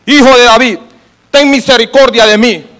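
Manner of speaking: preacher's acted call for mercy; crying out. Blind man calls to Jesus for mercy, acted crying out. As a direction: call out as the blind beggar, projected but controlled. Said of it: "y empezó a clamar".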